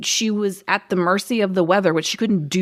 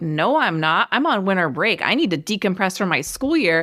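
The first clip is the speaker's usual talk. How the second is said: mock entitled teenager attitude. Retelling a teenage character refusing to help: imitating an entitled teenager. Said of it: "that is the entitled attitude of a teenager".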